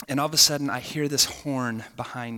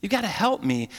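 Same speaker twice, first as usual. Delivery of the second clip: desperate prayer; 3 semitones higher than usual. Retold or imitated. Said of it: "remember praying and just saying".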